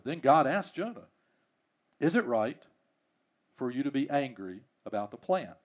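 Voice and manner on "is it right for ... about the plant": softer, lower, gently probing; a calm divine rebuke, hushed; quiet question. Acted. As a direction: let God ask it almost under the breath. God questions Jonah again.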